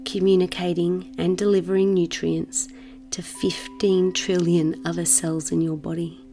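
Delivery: measured meditation voice with long pauses; guided meditation. Acted. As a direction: guide the listener into settling, unhurried.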